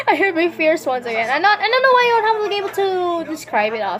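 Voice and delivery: high, giggly, flustered speech; real giggles, pitch riding high; laughing while talking. Real, not acted. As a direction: push the words out through laughter. Laughing while failing to explain fears.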